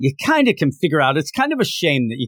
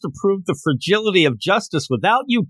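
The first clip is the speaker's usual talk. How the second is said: higher-pitched mock distress; plead, mildly upset, as if retelling it; a touch of theatrical dismay; retold upset; 4 semitones higher than usual. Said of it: "he's actually really upset".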